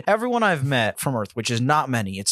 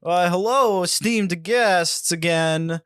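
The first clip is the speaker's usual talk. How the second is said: lightly voiced Christopher Walken; much slower than usual. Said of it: "Christopher Walken is standing there again".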